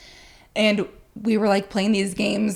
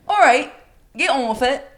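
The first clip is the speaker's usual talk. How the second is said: mock British bloke, a bit louder and higher; British accent; 4 semitones higher, 4 dB louder than usual. Drunk friend talking back to a British couple, imitated British accent. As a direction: put on a chummy British accent. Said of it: "talking in, like, a British accent".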